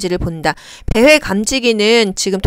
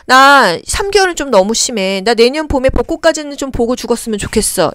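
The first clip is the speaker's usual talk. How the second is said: pleading bargain; 2 semitones higher than usual. Acted. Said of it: "뭔가 타협하고 싶은 겁니다".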